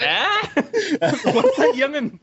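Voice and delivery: put-on slow, creaky old man voice, laughing; a deaf grandpa asking again. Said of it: "Speak Up Sonny kinda way".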